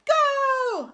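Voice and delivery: loud, high goal shout; triumphant yell; victory yell. A narrator's reading. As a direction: roar it again and again. Repeated goal celebrations.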